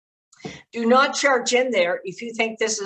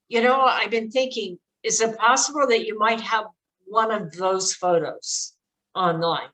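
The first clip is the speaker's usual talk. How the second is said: gently, slowing down on those photos; the right way: ease into it softly; quiet careful question. Shown as a demonstration. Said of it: "be very quiet and just sit".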